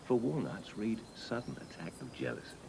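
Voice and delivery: knowing aside. Acted. Knowing aside about the wife.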